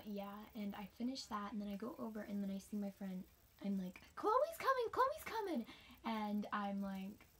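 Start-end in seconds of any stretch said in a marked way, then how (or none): 4.1-5.7 much higher, louder excited call; excited announcement. Retold or imitated. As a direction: call it out like big news. Friend excitedly announces Chloe arriving.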